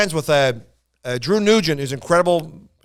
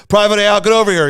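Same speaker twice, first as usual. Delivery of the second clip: officer's summons; 5 semitones higher, 6 dB louder than usual. Retold or imitated. Officer summons soldier at camp.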